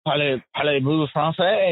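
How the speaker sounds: lightly imitated French speaker; French heckler. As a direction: put on a French listener's timid question. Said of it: "these French people would be like".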